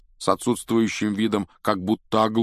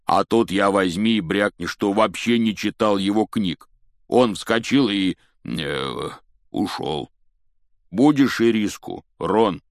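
lightly voiced giant telling a tale; a touch of big-fellow bluster; giant, chatty; 5 dB louder than usual.

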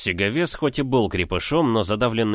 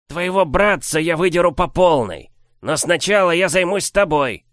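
squeaky menacing giant; 9 semitones higher, 4 dB louder than usual. Acted. Giant threatens hero.

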